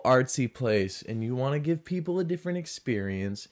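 ordinary talk, nothing marked

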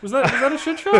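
high, loud mock-innocent question; sarcastic question. Mocking question about covid.

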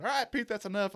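wedding guest telling mascot to stop, mock exasperation; annoyed guest. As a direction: play the fed-up guest lightly. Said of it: "and they said".

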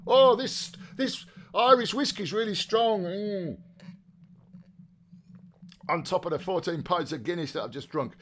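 high, strained fake boozing voice; mock whiskey reaction. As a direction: feign being floored by strong whiskey. Feigns strong whiskey while confessing to squash.

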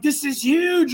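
high, overawed mock voice; high-pitched, worked-up exclamation; excited girlfriend. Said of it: "she's all excited".

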